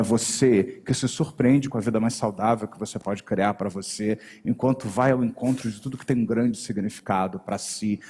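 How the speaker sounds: the word você dropped low and held. Shown as a demonstration. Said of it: "aquela pequena inflexão da voz".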